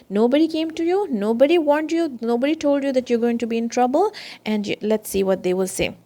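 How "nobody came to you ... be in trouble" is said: raised, fast, accusing questions; angry questioning. Retold or imitated. Angels at the hellfire confront the damned, angrily. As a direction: demand it of them like angry guards. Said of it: "They're very angry".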